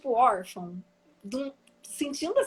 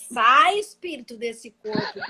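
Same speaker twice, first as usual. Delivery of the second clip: mock exorcist command; 7 dB louder than usual. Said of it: "e falava".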